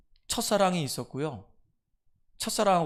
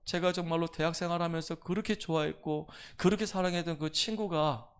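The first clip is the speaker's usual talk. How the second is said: mild tearful plea. Retold or imitated. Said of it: "울면서 저한테 얘기해요".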